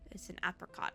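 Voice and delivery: soft unvoiced whisper; whispered line. Reading the character's line in a whisper. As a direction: breathe the words out.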